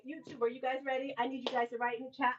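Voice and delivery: normal talking voice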